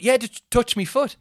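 high, loud blokey voice; chirpy lad offering a helpful tip; bright, sing-song mate in the pool; swimmer's cheery tip. Retold or imitated. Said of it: "He went".

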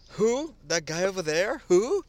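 mock confused looking around. Acting out confused self.

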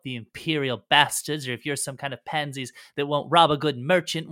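brash, loud pirate talk in dropped-g dialect; defiant pirate prisoner. Acted. Captured pirate bargaining to join the crew, brash and defiant. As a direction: lay down your terms like a cocky pirate.

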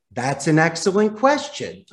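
upbeat, pleasant phone reply; a polite plus-two reply; friendly buffer. Shown as a demonstration. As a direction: salesman buffering a negative caller, warm and upbeat. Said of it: "You buffer it by saying".

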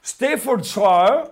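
loud, stretched-out dog breed name; slow, emphatic mock read-out; drawn-out reading. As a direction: draw the word right out, loudly.

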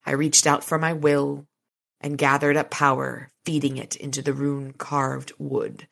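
measured, dramatic audiobook reading; story narration. A narrator's reading. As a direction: read the action scene evenly and deliberately.

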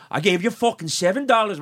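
mock Irish accent, indignant; horrible Irish accent. Drunk regular accusing the bartender, horrible Irish accent. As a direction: complain in a badly faked Irish accent. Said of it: "my horrible Irish accent".

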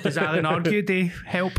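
words through a laugh; giggling while asking. Real, not acted.

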